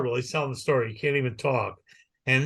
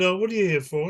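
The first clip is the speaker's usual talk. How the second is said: lightly voiced doctor; 5 semitones higher than usual. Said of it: "the doctor said".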